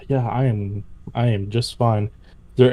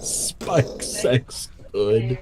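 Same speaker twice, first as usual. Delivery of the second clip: very slow dumb repeat; mocking caveman voice; 4 dB quieter, much slower than usual. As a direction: drag it out like a caveman.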